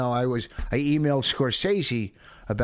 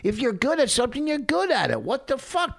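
worked up; 9 semitones higher than usual. Real, not acted. Heated defense of bragging.

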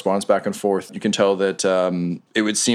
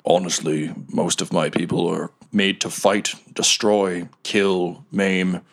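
a cheerful golem who loves his bar; lightly voiced party golem; golem bartender.

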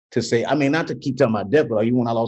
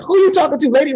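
high, loud indignant snap; auntie snapping; 5 dB louder, faster than usual. Retold or imitated. Auntie snapping at the funeral director, high and loud. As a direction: bark it back at the rude lady. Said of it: "my auntie, like, snapped".

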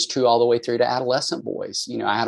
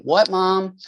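put-on high-pitched, innocent teen answer at normal volume; imitated harmless "yes, Mom?" tone; innocent reply; 9 semitones higher than usual. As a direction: answer mom as if nothing is wrong. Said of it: "thought he was just, you know, probably saying".

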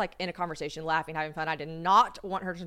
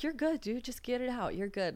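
softer, higher easygoing comfort; chill reassurance; 5 semitones higher, 4 dB quieter than usual. Retold or imitated. Imitating the girl comforting her as she's sick, chill and reassuring. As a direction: gently talk a friend through it, unbothered. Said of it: "She still is so, like, just chill".

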